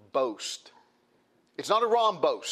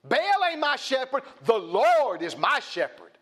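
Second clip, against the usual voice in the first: confident boast; 6 semitones higher than usual. Retold or imitated. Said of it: "He's saying it boastfully and confidence".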